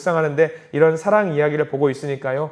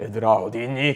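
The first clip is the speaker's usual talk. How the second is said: put-on, ponderous, heavy, weighty voice; 6 semitones lower, 4 dB quieter than usual. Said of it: "묵직한 목소리 하면서".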